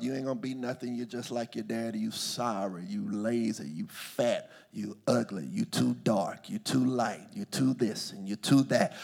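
lightly voiced belittling, low and soft; mild imitation of a scolding elder; imitated put-downs. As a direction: list the insults one by one, low and understated. Voices cutting words heard growing up.

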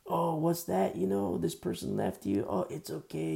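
mocking a preacher's slick rock star voice. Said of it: "they do their little rock star voice".

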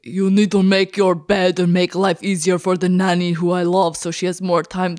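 mock accent that comes out Russian; a gruff, clumsy Arnold impression; bad Arnold accent. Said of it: "He's not Russian".

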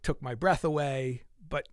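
ordinary talk, nothing marked

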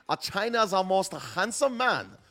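hammed-up Chinese accent voice; mock Chinese accent. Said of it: "the Chinese voice".

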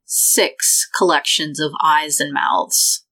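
slow, ominous reveal; game master narration. Acted. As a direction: pause before the horror opens up. Game master sets the scene.

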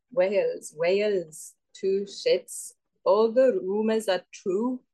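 deliberate, halting botched Welsh; bad Welsh accent. Contestant limping to the monologue's end, bad Welsh accent. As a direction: Welsh attempt sounding part Russian, part Asian. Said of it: "Your Welsh sounded like a Russian".

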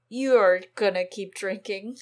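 slow booming declaration, rising to a yell; dramatic shout. Retold or imitated. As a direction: boom it out like a villain. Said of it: "it would have actually been cooler if he said it like that".

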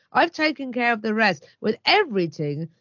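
emphatic sales read; promotional read. Acted. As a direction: pitch it as lively food-ad copy. Reads out chef's promotional copy.

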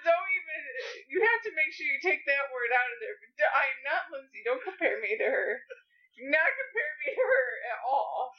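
indignant, voice close to cracking up; near-tearful laughing protest. Real, not acted. Wife objects to being compared to Lindsay, near-tearful protest. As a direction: protest on the edge of tears and laughter. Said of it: "Are you crying?".

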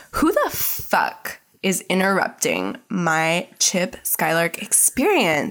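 slow, emphatic retold indignation; a touch of hammed-up outrage, drawn out; mock annoyed. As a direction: lightly imitate someone pissed, word by word. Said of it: "she's pissed".

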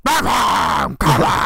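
mock announcer shout; drawn-out hammed-up arena call; imitated arena announcer. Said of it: "kan inte göra som Batman också".

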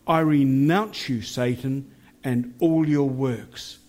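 firm renouncing prayer, slowed phrase ends; fierce commanding prayer. Shown as a demonstration. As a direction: command it with full conviction. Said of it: "let's pray a prayer together".

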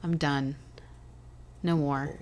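winded and worn out; gasping short words; out of breath. Real, not acted. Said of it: "I'm out of breath".

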